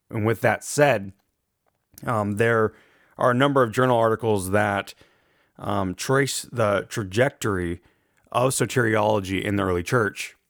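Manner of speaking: rough, gravelly speaking voice. Real, not acted. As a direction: talk through an allergy rasp. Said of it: "I apologize for the, the gravelly voice".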